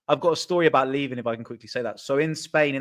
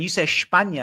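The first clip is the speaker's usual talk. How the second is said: España said the Portuguese way, "Shpanya"; España with a Portuguese accent; 3 semitones higher than usual. Retold or imitated. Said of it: "You say it with a Portuguese accent".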